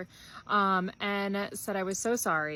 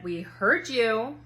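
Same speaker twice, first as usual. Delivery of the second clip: drawn-out dismissal; 2 semitones higher, 6 dB louder, much slower than usual. Retold or imitated. Daughter's flat dismissal.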